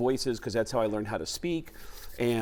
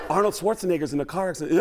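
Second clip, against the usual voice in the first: distressed; 4 semitones higher, 3 dB louder, faster than usual. Shown as a demonstration. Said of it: "This is the whole Mark Wahlberg impression".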